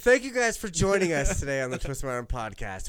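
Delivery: announcer-like outro, slowing at the end; podcast sign-off. Real, not acted. Host thanks listeners and closes the episode, podcast sign-off. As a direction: wrap up the show, stretching the closing words.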